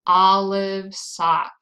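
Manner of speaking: "olive sock" slow and loud, with matching open "ah" vowels; model vowel sound. Shown as a demonstration. Teacher matching fa to a key phrase, slow "olive sock". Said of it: "Fa sounds like".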